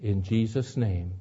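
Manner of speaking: earnest, measured pastoral prayer; closing prayer. Acted. Pastor praying for the congregation at the sermon's end, earnest and measured. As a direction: pray over the congregation gently.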